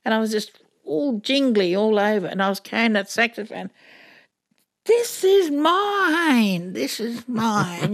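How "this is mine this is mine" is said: much higher, very slow, savouring each word; drawn-out, dreamy disbelief; awed delight. Retold or imitated. Single mum walking home with her new saxophone, slow awed delight.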